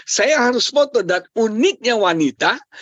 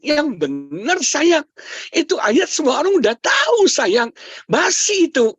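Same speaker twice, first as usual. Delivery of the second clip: higher-pitched mock exasperation of a wife; imitated wifely protest; 8 semitones higher than usual. Wife rejects husband's caption, mock exasperated. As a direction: protest like an unimpressed wife, playfully exaggerated. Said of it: "istri saya melotot lihat saya".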